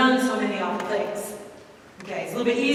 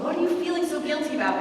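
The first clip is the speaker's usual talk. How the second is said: a calm, fast, kindly asked question; gentle question; 4 semitones higher, faster than usual. Retold or imitated. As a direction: ask it gently, as a caring priest.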